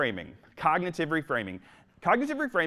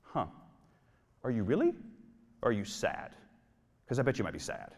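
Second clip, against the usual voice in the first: gently skeptical; 4 semitones lower, 5 dB quieter than usual. Retold or imitated. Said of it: "And I'm like".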